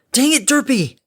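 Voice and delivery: loud, high exasperated shout; snarling. A narrator's reading. Harmony flies after oblivious Derpy, snarling. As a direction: snarl it loudly over the wind. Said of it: "Harmony snarled against the beating wind".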